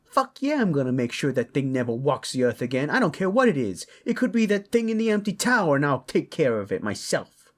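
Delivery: loud, high, rapid rant; fired-up parent on a vengeful tirade; fierce vow. Acted. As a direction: swear it hotly and barrel through. Enraged parent swears to destroy the thing.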